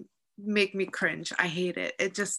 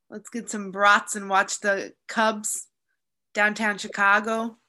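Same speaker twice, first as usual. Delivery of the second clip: Midwest accent. Shown as a demonstration. Showing off an accent on the podcast, lazy Chicago Midwest. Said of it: "I don't think I do the Midwest accent, but I can".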